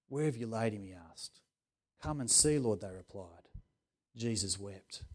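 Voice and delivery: soft, hushed reading of the verse; quiet reading. Acted. Preacher rereads to the congregation, hushed. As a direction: let it drop to a hush.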